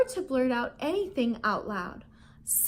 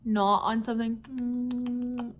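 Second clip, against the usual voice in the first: slow prompt. Shown as a demonstration. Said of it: "Can I hear you nibble".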